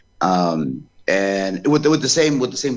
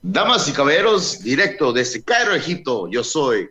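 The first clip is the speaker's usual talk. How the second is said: booming Spanish ring announcer, drawn out; ring announcer intro; 9 semitones higher, slower than usual. Shown as a demonstration. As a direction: announce yourself like at ringside. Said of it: "give it a try".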